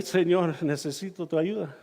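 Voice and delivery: low, subdued mock prayer; retold plea. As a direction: plead softly to God, retelling it. Retold plea to God in trouble.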